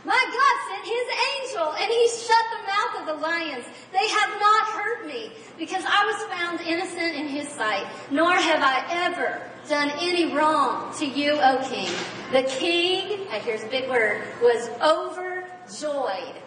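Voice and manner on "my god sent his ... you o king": higher, lightly voiced echo from below; little voice from the den. Daniel answering the king from the den, lightly voiced. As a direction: call up from the pit. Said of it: "this little voice coming out".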